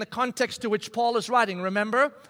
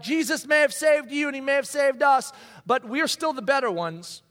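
mock boast; 4 semitones higher than usual. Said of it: "They're looking at each other like".

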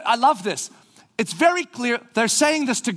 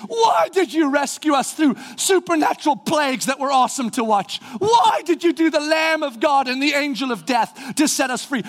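accusing shout; 4 semitones higher than usual. Retold or imitated. Preacher voicing Israelites' accusation.

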